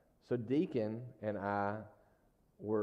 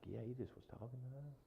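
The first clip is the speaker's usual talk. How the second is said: quiet son's reply; 3 semitones higher, 14 dB quieter, faster than usual. Retold or imitated. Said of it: "He was like".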